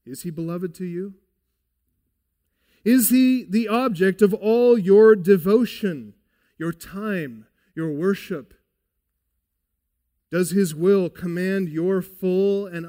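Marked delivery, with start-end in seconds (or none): 2.8-8.6 loud appeal. Real, not acted.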